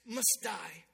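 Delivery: acted wrath dropped to a near-whisper; burning anger. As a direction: let the sentence land low and hushed. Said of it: "David burns with anger".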